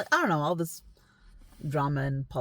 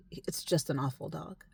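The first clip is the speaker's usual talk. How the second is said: whisper; 5 dB quieter than usual. Real, not acted. Hushed aside about the dog.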